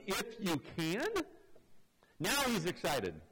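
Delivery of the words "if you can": incredulous question. Retold or imitated. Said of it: "his response was".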